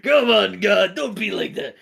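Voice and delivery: pleading character. Acted. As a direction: plead aloud in exasperation. Acted plea in story.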